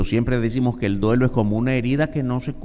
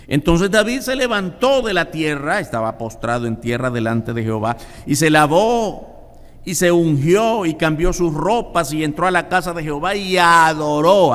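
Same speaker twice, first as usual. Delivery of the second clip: fervent scripture reading; 6 semitones higher than usual. Acted. Preacher to the congregation, reading David's story fervently.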